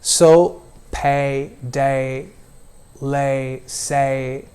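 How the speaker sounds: pay, day, lay, say with a mild, short glide; mild American diphthong. Shown as a demonstration. Teacher models pay, day, lay, say for student, mild glide. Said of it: "that's the right way you have to pronounce".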